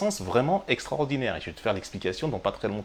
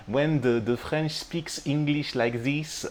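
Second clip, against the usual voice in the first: a light French accent in English, slow; 4 semitones higher, much slower than usual. Shown as a demonstration. Teacher showing how French people sound in English, light French accent. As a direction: mimic a French speaker's English, slowly. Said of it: "quand le français parle anglais".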